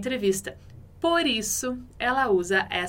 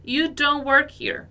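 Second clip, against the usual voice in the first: slow model reading; 3 semitones higher, 4 dB louder, slower than usual. Shown as a demonstration. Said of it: "dando uma informação".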